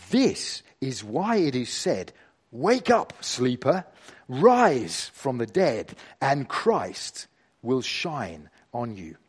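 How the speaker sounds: measured Bible reading with deliberate pauses; scripture reading. Acted. Preacher reading Ephesians to the gathered church, measured scripture reading. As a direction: read scripture aloud, weighing each phrase. Reads scripture aloud to congregation.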